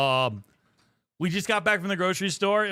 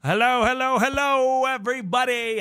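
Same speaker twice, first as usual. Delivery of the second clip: higher, louder stream opener; excited greeting; 6 semitones higher, 5 dB louder than usual. Real, not acted. Streamer greets viewers at the stream start, excited. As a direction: welcome everyone with energy.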